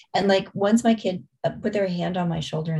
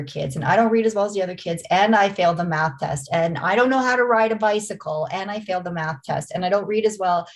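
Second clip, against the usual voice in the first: mock upset kid. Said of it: "You're like".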